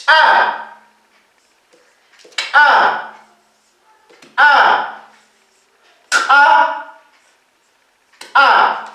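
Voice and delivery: each "a" launched by a popped ch, k, p, q or t; sharp glottal pop before every "a", long pauses between; reinforced ejective consonants. Shown as a demonstration. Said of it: "las consonantes reforzadas". (consonantes reforzadas, con golpe glotal)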